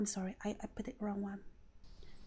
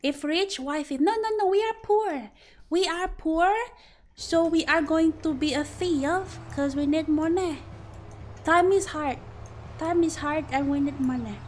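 louder, higher whiny wife complaining we are poor; mock poor wife; 4 semitones higher, 4 dB louder than usual. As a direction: ham up a broke wife begging her husband for money. Playing a poor couple bit.

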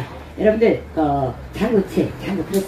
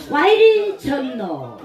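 slow, drawn-out Gyeongsang exclamation, higher; Gyeongsang dialect; 4 semitones higher, much slower than usual. Shown as a demonstration. Performer showing the crowd a regional version, Gyeongsang dialect. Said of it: "경상도 버전입니다".

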